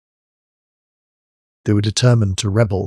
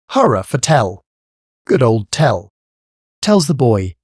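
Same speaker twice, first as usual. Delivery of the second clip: louder hearty roar; roaring cheer; 3 semitones higher, 4 dB louder than usual. A narrator's reading. Smith cheering Tell to the crowd, roaring loudly. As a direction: bellow the praise like a proud smith. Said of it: "roared Ulrich the smith".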